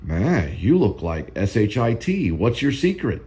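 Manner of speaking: drawn-out, lightly imitated actor's insult; a hint of an impression, slowed for comic effect; Marlon Brando. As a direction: lightly mimic the line, stretching the spelled-out letters. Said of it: "The way that Brando says it".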